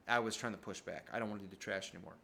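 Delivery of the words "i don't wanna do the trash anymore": put-on whiny kid self. Mocking his own whiny self.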